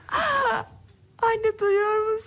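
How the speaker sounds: amazed excitement. Acted. Child speaks for first time.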